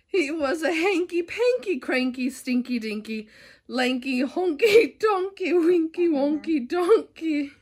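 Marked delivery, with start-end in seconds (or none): 3.7-7.5 laughing while reading. Real, not acted. Reading through giggles.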